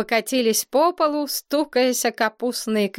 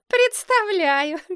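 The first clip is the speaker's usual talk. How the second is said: snorting scoff; 11 semitones higher, slower than usual. A narrator's reading. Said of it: "Принцесса фыркнула".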